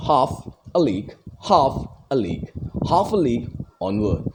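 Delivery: "half" stressed, "a league" unstressed; measured dactylic recital, beat on "half"; stressed-unstressed metre. Shown as a demonstration. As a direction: lean on "half", let "a league" drop.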